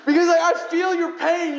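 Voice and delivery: laughing it out to keep from crying. Real, not acted. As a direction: break up laughing on the words.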